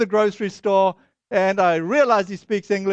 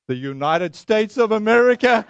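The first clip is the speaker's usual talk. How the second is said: incredulous question; 4 dB louder than usual. Retold or imitated. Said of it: "This is not a friendly look".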